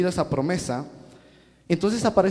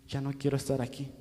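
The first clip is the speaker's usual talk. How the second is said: soft, defeated Peter; broken whisper-soft; 3 semitones lower, 9 dB quieter than usual. Retold or imitated. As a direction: voice drops low and soft. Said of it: "estaba roto por dentro".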